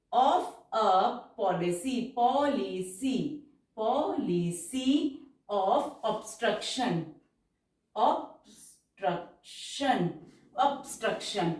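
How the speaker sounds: very slow, drawn-out dictation pace; stenography dictation, stretched syllables. Shown as a demonstration. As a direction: read it out word by word for shorthand.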